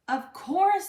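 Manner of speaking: high, loud happy consent; cheerful yes. Acted. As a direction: grant it gladly. Mother grants permission.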